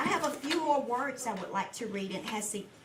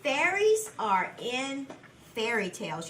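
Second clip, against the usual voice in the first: slow model reading; slower than usual. Shown as a demonstration. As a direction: read "Fairies are in fairy tales." slowly, word by word. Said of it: "Read it with me".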